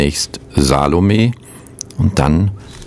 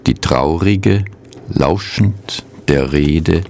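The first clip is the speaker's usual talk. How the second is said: measured poem recital with long pauses; poetry reading. Acted. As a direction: read each line as verse, letting it settle. Reads two translated poems.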